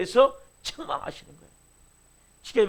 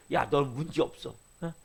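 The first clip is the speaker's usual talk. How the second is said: Satan coaxing; 6 semitones lower, 5 dB quieter than usual. Retold or imitated. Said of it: "사단은 끊임없이 그래요".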